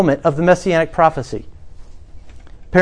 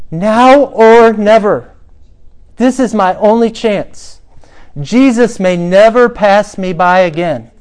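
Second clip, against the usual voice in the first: louder, slow, every word pressed; determined plea; 4 semitones higher, 6 dB louder, slower than usual. Retold or imitated. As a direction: plead as if it's your only chance. Beggar determined, last chance.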